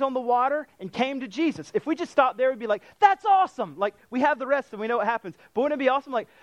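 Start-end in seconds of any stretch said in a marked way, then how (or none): 3.0-5.3 high, loud burst of delight; excited awe. Retold or imitated. Preacher imagining Peter's thrill at walking on water, excited. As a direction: gush like a thrilled kid watching a miracle.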